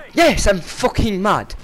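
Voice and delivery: slow, loud, fed-up retort; angry reply. Retold or imitated. Answering the mic taunt, slow and angry. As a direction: bite back at the taunter.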